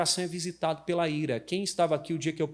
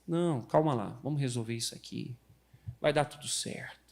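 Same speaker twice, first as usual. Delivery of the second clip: soft, gentle calming voice; calm soothing demo; 4 semitones lower, 5 dB quieter than usual. Shown as a demonstration. Pastor shows the congregation the calm way, softly. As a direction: coax someone down softly. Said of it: "você tem que fazer assim".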